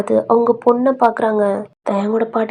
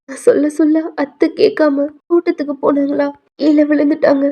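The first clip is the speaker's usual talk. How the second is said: mildly tearful, higher-pitched telling; mock tearful; 4 semitones higher than usual. Aunt telling Dayang about grandmother's fall, mildly tearful. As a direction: act out a crying aunt, lightly. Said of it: "அப்படின்ட்டு அழுகுறாங்க".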